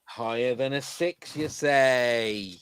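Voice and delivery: slow, drawn-out host catchphrase; lightly hammed-up quizmaster call; game show host. Host repeating a player's card choice, drawn-out quizmaster call.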